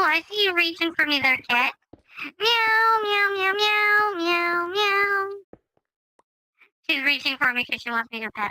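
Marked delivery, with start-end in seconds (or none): 2.4-5.3 high, slow mewing cat voice; nervous cat voice. Pretend. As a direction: mew it up high and slowly. Meowing at the cat.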